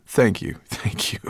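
heartfelt thanks. Acted. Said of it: "he repeated".

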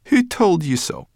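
high, loud, amused challenge; grinning brownie. A narrator's reading. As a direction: ask it cheekily with a grin. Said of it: "Sorrel grinned".

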